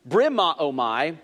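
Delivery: "brimaomai" spoken slowly and carefully: bri-ma-o-mai; Greek root word. Shown as a demonstration. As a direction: lay out "brimaomai" slowly for the listeners. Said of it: "It comes from a root word".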